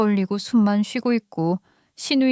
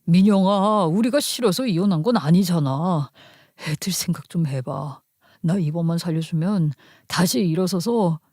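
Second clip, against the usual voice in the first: lightly voiced husband, a touch lower; pleading husband; 3 semitones lower than usual. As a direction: plead earnestly for one more chance. 남편이 매달리며 설득. (남편이 살짝 낮은 목소리로 사정하듯)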